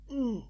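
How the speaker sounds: soft, understated hum of a moan; quiet moan. Acted. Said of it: "he moaned quietly".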